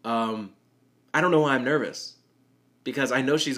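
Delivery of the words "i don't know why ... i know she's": nervous. Real, not acted. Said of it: "do I sound nervous?".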